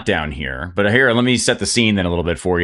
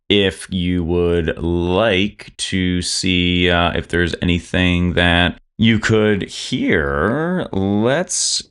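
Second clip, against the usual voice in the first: very slow, stretched-out words; slow, playful game-master build-up; drawn-out announcement; much slower than usual. Pretend. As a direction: draw every word out to build suspense. Game master teasing first roll.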